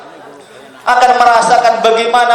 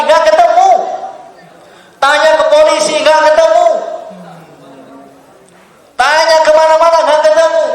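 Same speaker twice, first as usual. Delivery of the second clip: higher each time it is not found; rising dismay; 6 semitones higher than usual. A narrator's reading. Preacher telling the failed search, rising dismay. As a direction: build the frustration.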